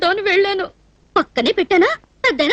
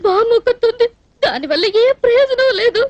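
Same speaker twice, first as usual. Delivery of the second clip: tearful. Acted. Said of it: "ఏడవకూడదు".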